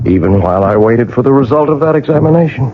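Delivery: measured, brooding storyteller read; story narration. A narrator's reading. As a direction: narrate it like a haunted memoir. Narrator recounts the clock story.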